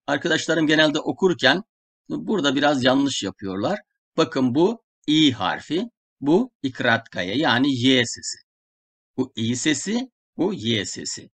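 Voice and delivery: ordinary talk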